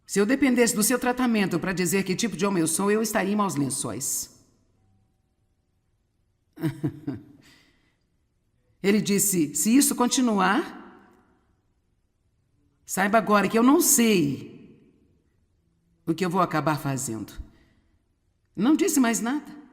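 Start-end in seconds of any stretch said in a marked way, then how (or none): 0.1-4.3 quietly retold husband's rebuke, low and even; calm, firm confrontation. Husband confronts his wife at God's timing, calm and low. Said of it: "Não estava com raiva, não gritou". 9.6-17.3 retold husband's warning, sinking low and soft at the end; calm, firm warning. Husband warns his wife without shouting, calm and measured. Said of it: "Não estava com raiva, não gritou".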